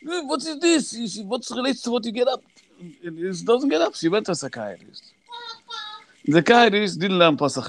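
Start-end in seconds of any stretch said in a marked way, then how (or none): 0.0-2.4 retold mother's scream. Mother at a boy who won't get up, high mock scream. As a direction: imitate an exasperated mother in a high squeal. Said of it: "So your mother screams at him".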